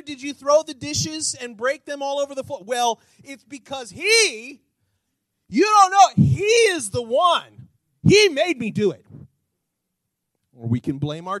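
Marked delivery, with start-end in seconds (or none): 2.6-9.1 shouted, high, you don't know; defensive spouse yelling back; mock angry spouse, loud; acted angry excuse. Spouse acted defending broken dishes.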